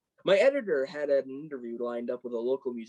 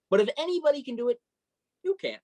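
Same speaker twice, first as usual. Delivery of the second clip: rising encouragement; 9 semitones higher, faster than usual. Acted. Cheering up a discouraged friend.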